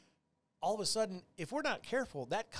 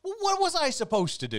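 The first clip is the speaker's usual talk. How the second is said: much higher and louder, whining protest; overdramatic; 9 dB louder than usual. Acted. Overdramatic wail defending himself to his cohost. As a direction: play up the helpless victim. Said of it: "there's the overdramatic side coming out".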